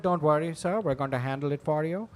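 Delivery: imitated call-center scammer accent; odd, imperfect American accent. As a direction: fake agent with a foreign accent. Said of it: "the accents are all, they can't do".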